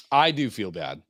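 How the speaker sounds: "I" said with weight; stress on I. Shown as a demonstration. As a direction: put the weight on "I". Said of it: "This is how I talk to my therapist".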